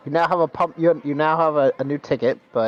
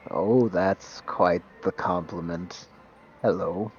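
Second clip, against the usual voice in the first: slow, low, gentle tree; 4 semitones lower, 3 dB quieter, much slower than usual. Acted. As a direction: speak like an old kindly tree. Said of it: "He looked down at you and goes".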